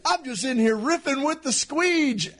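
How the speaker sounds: high, slow goofy voice; the Squeege. Retold or imitated. Friend quoting the podcast character in the restroom, high slow goofy voice. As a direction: draw it out like a dopey character. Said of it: "I said".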